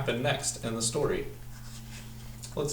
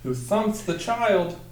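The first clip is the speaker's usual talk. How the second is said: dramatic storytelling; 8 semitones higher, slower than usual. Acted. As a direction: build the chaos for the kids word by word. Dramatic climax read to children.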